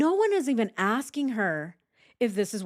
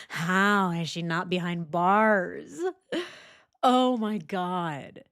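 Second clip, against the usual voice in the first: ordinary talk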